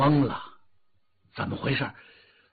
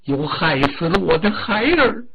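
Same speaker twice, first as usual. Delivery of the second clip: furious demand; 2 semitones higher, 5 dB louder than usual. Acted. The grieving Dragon King demands who killed his son, furious.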